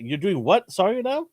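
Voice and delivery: a hint of an annoyed wife; incredulous wife. Wife reacting with surprise.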